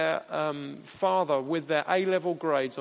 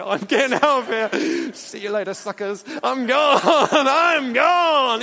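much higher, louder squeaky hamster shout; hamster impression; 7 semitones higher, 10 dB louder than usual. Preacher to the church, playing a gleeful hamster escaping in a squeaky shout. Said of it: "This is my hamster impression".

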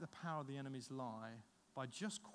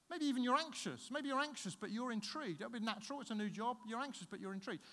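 eager coaxing; 6 semitones higher than usual. Retold or imitated. Retold man coaxes woman to reconsider.

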